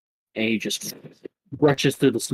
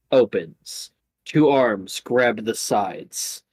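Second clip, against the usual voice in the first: game master narration; 3 semitones lower than usual. Acted.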